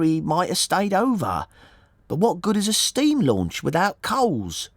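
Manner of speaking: high, chattering woman's voice; puzzled boatman's wife. A narrator's reading. Wife puzzles over the launch without coals, chattering. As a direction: reason it out aloud, pitched well up.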